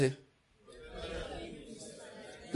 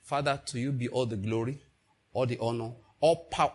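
softer worshipful prayer tone; soft humble prayer; 4 semitones lower than usual. Shown as a demonstration. Preacher models humble prayer for congregation, soft. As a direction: pray it softly on your knees. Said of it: "get on your knees and pray".

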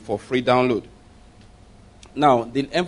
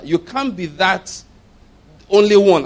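skeptic's objection; 5 semitones higher, 5 dB louder than usual. Retold or imitated. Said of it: "Arguments come up".

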